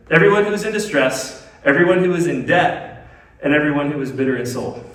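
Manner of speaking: measured scripture read, item by item; deliberate re-reading. Real, not acted. Preacher re-reading so listeners catch it, deliberate and spaced. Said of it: "Let me read that again and just, like, catch it".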